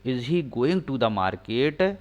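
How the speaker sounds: whole sentence read slowly; slow read-back; slow full read. Shown as a demonstration. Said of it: "सहायक क्रिया बाहर हो जाएगी".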